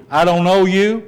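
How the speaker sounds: the door closing on you; mild rejecting judge; rejecting Jesus. Shown as a demonstration. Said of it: "Which are you on the".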